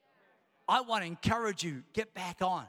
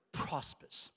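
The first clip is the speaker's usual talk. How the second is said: whisper; 5 dB quieter than usual. Acted. Pastor whispering the key word to the congregation. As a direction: whisper "prospers" unvoiced and soft.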